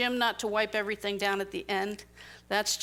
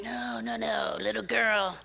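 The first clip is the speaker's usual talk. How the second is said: lightly voiced bully contractor, patronizing; condescending roofer; 2 semitones higher, 4 dB louder than usual. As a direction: talk down to her, then threaten. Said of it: "He really did call me little girl".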